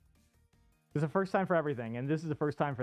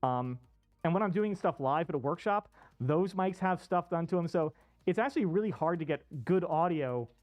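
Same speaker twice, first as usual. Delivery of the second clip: muffled. Real, not acted. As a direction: voice muffled inside a costume. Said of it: "sorry it sounds a little muffled".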